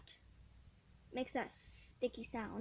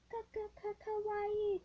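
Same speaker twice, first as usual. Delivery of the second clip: slow, higher sing-song ka-ka-ka-kawaii; playful stutter; 7 semitones higher, slower than usual. Pretend. Girl showing cute squishy, playfully stutters kawaii. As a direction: play with the word kawaii.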